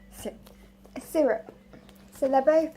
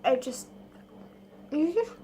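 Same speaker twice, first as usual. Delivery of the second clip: mouthful. Real, not acted. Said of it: "Sorry, I'm talking with my mouth open, mouthful".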